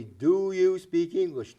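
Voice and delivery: loud, slow, over-enunciated question; mock the tourist shouting at locals. Tourist shouting at a local who doesn't understand, slow and loud. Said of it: "if they say it louder".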